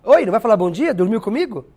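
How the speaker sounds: a touch of sarcastic reproach; ironic jab. Pretend. Teacher acting ironic greeting to a student, sarcastic. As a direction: needle them for not saying hello. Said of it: "É uma ironia".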